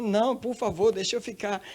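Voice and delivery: high, childlike acted begging; pleading like a child. Woman begging the voice to let her stay, childlike plea. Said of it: "foi igual uma criança mesmo".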